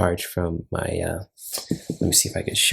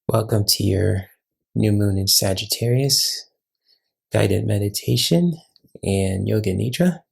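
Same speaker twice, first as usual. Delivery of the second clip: measured welcome with pauses between phrases; guided meditation intro. Acted. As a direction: gently lead listeners into a meditation, phrase by phrase.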